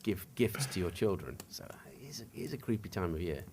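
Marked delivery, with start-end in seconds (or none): 1.5-3.4 spooky whisper. Acted. Spooky Christmas talk, whispered.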